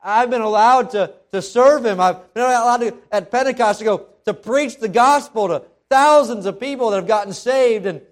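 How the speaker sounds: high, loud, exultant witness; joyful testimony. Acted. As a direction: lift it up in grateful joy. Peter recounts grace, rising joy.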